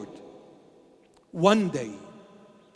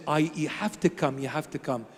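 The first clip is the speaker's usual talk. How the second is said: quiet retold begging; 4 semitones lower, 5 dB quieter than usual. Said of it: "I begged him, I begged him".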